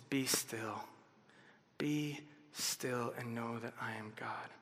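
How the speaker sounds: low, soft and slow, almost reverent; a quiet, awed reading of God's words; hushed scripture. Acted. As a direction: let the words settle in stillness. Quoting God's command in psalm.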